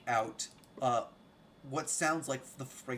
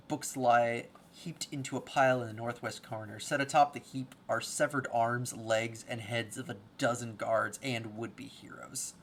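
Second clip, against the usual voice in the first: scene-setting narration; 6 dB louder than usual. Acted. Game master describing the ruined library, scene-setting narration. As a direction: read out the grim room to the table.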